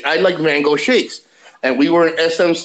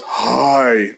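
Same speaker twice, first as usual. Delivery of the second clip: a famous singer's deep voice; 6 semitones lower than usual. Retold or imitated. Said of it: "she sounded like a singer, a singer".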